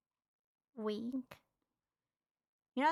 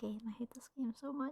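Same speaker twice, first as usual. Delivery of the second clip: fast, whispered complaint; hurried whisper of despair; exasperated whisper; 7 dB quieter, much faster than usual. Real, not acted. Player fed up with the game, quick exasperated whisper.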